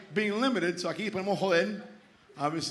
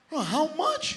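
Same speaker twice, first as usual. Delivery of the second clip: mesmerized; 9 semitones higher than usual. Acted. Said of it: "like, mesmerized".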